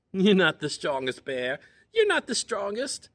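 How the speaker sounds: high, loud teasing chipmunk; small teasing voice. Acted. Hidden chipmunk taunting Bear in a high teasing voice. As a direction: taunt him from a hiding spot. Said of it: "heard the little voice again".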